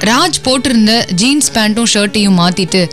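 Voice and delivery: ordinary talk, nothing marked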